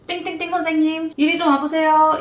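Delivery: a senior calling someone over for a scolding; stern summoning senior. Retold or imitated. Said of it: "가장 무서웠던 이야기". (혼내려고 부르는 선배의 단호한 부름)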